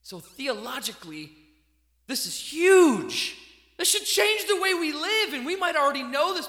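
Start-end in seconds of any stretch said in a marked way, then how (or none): 2.1-6.5 rising fervent sermon emphasis; emphatic preaching. Real, not acted. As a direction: preach it out with full force. Preacher stressing the point.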